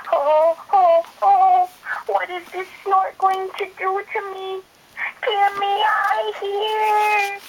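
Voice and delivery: high, loud frightened bird; scared. Acted. Baby bird lifted up, high scared wail. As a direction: wail it up high, getting slow at the end.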